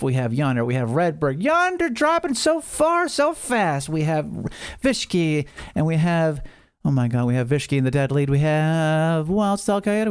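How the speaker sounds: lively marble race play-by-play; excited race caller, a touch hammed-up; race announcer. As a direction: call the race like a sports announcer. Live marble race commentary.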